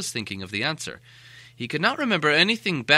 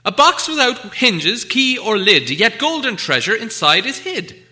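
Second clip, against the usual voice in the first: higher, louder, slow riddle chant; Bilbo riddling; 10 semitones higher, 10 dB louder, slower than usual. Acted. Bilbo posing a riddle to Gollum, slow and lilting. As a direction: set the riddle like a sly challenge.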